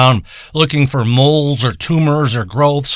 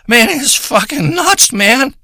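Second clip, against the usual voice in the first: amazed awe; 9 semitones higher, slower than usual. Acted. Raving about potent weed.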